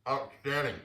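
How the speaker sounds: talking with food in mouth; mouth full. Real, not acted. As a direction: speak through a bite of ravioli. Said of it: "I'm gonna talk with my mouth full".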